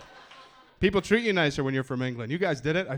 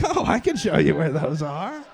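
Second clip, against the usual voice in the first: put-on patronize him like a lost child; condescending clerk; 2 semitones higher, 6 dB louder than usual. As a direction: store employee guiding a clueless foreigner. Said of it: "They're like".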